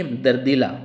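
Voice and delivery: दर्दीला ending in long ee-laa; wrong word form. Shown as a demonstration. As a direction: say दर्दीला as dar-dee-laa. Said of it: "दर्दीला नहीं होगा".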